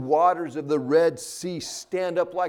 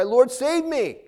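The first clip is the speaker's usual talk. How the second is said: high, loud pleading cry; urgent cry for help; 10 semitones higher, 6 dB louder than usual. Pretend. Preacher voicing a sinking believer, urgent pleading cry. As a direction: call out to the Lord as if you're sinking.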